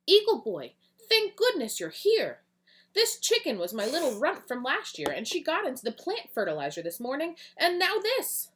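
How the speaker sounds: high, loud, breathless relief; frantic farmer. Acted. Miss Green greeting the hero, high and frantic. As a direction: gush with relief as help arrives. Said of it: "poor Miss Green's goats".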